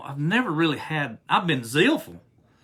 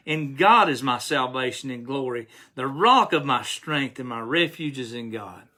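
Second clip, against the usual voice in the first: measured scripture reading, slightly slowed; a preacher reading a psalm aloud to the congregation. Acted. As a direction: read the psalm with steady reverence. Reads Psalm sixty-two aloud.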